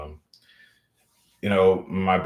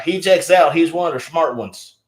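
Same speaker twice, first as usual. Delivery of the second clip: mock racist approval; 7 semitones higher, 7 dB louder than usual. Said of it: "they're gonna be like".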